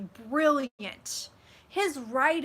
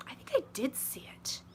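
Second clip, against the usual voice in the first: 1 whisper; 2 semitones higher, 7 dB quieter than usual. Real, not acted. Confiding to a viewer.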